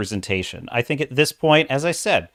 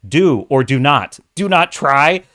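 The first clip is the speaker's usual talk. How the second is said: quoting Yoda; 4 dB louder than usual. Retold or imitated. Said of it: "he would have said".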